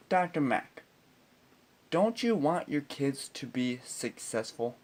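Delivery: mock-earnest question, starting high; smart-ass. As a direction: lay on the fake concern to needle him. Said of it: "smart-ass mood".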